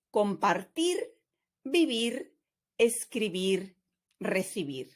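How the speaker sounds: spaced list from "Hablar" to "recibir", each ending stressed with a light R; stress on last syllable. Shown as a demonstration. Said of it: "I'm gonna read that list again".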